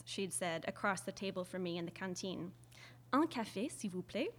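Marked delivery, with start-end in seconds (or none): 3.1-4.3 delicate, refined little ask; dainty French request. Retold or imitated. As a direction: ask politely, pinky raised. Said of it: "holding an invisible tiny teacup".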